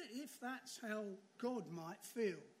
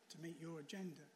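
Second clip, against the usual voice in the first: "to meet your agenda" repeated softer with a small laugh, trailing off; soft echo; 4 semitones lower, 6 dB quieter than usual. Shown as a demonstration. Preacher echoing the Keller quote to the congregation, soft and amused. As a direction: let "to meet your agenda" fall away softly with a chuckle. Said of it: "then you only trusted God".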